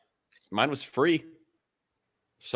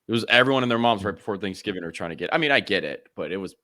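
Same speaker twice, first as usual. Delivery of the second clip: stuffy nose; 2 semitones lower than usual. Real, not acted. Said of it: "you still sound a little s-, a little stuffy".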